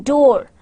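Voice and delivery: "door" with open aw-like o; double O sound. Shown as a demonstration. Teacher demonstrates double O to learners, aw sound in "door". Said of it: "interpretations of one sound".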